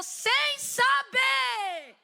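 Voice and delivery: drawn-out preaching shout; emphatic shout. Real, not acted. Preacher urging obedience without knowing, long loud shout. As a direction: shout it slowly, stretching each word.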